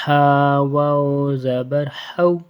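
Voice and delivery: long-held, chanted "ہا" with a soft breath of h. Shown as a demonstration. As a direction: chant it slowly, keeping "ہا" gentle. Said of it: "ہا کو نرمی سے پڑھنا ہے".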